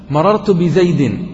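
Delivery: "مررت بزيد" drawn out with the kasra clear; teacher sounding out an example for the class, slow and clear. Shown as a demonstration. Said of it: "تلفظت بالكسرة أو لا؟".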